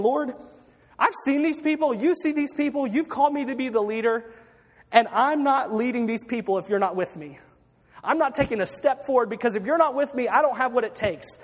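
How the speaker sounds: insistent mock appeal; impassioned plea. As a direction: plead your case urgently, as an overwhelmed leader. Acting leader pleading boldly with God.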